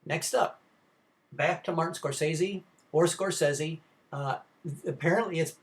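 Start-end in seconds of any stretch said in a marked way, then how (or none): 1.9-2.6 Scorsese with a long A, "score-SAY-zee"; long-A pronunciation. Shown as a demonstration. Lecturer introducing director Martin Scorsese, long-A pronunciation. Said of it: "it's pronounced both ways". 3.1-3.8 Scorsese with a short E, "score-SEZ-ee"; short-E pronunciation. Shown as a demonstration. Lecturer offering the other way, short-E pronunciation. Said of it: "it's pronounced both ways".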